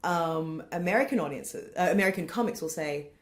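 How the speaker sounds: ordinary talk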